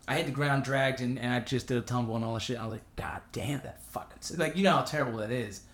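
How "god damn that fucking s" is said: pained curse. Retold or imitated. In pain after landing.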